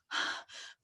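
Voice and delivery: a quick unvoiced gasp for air; breathless gasp. Shown as a demonstration. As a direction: gasp like a kid who just ran in. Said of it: "you hear her panting".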